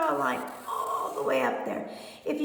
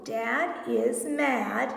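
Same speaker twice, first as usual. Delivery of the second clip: slow model reading; much slower than usual. Shown as a demonstration. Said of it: "model reading sentence".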